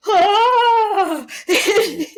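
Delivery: loud, high laughing cry; burst of laughter. Real, not acted. To the host, laughing out loud after her own quote. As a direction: crack up loud at the realization.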